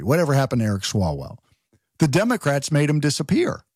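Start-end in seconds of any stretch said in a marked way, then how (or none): 0.0-1.4 lower, faster, announcing it like a documentary title. Shown as a demonstration. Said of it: "That should be like a documentary".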